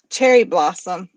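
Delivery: cherry blossom set apart, stress on cherry; stressed secret word. Shown as a demonstration. Host spells out the secret word with stress. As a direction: announce cherry blossom deliberately. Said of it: "you also have to use the word".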